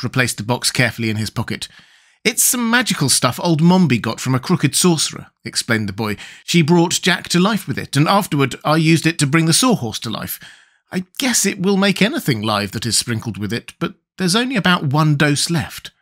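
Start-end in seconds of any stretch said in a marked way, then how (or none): 2.2-5.3 lightly voiced boy, pitched up; a hint of boyish voice, higher; explaining boy. 6.4-15.9 lightly voiced boy, pitched up; a hint of boyish voice, higher; explaining boy.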